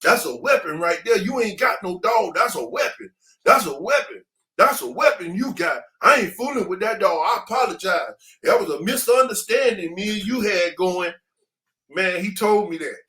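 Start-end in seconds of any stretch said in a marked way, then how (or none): 0.0-11.1 emphatic, higher-pitched imitation of a rattled man; worked-up backing down. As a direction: act out someone insistently backing off. Retelling a rattled man's backdown.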